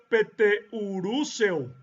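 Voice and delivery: Peteuruseo sounded out slowly, syllable by syllable; Korean pronunciation. Shown as a demonstration. Lecturer listing Pedro in other languages, Korean pronunciation Peteuruseo. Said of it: "en coreano se pronuncia".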